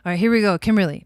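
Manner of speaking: loud, upbeat kickoff. Real, not acted. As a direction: announce it with energy. Starting the reading, energized.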